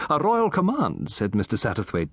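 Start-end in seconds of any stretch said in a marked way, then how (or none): 0.1-1.1 tittering. Acted. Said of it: "tittering a little".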